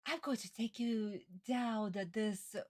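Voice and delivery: put-on high witchy baby-talk croon; evil witch voice. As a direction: menace a baby sweetly like a witch. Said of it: "she was like".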